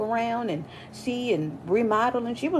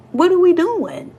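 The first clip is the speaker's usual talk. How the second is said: high, loud exasperated cry; exasperated outcry; 9 semitones higher, 7 dB louder than usual. Real, not acted. Complaining about software from ninety-three, loud high exasperation. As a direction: throw your hands up in loud disbelief.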